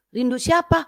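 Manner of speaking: high retold query; high-pitched questioning. Retold question amid the screaming.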